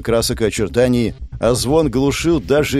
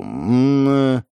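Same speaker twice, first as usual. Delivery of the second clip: stuttering in disbelief, getting louder; stammering; 3 semitones higher, 4 dB louder, slower than usual. Acted. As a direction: stammer out the words in shock. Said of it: "заикался мужик".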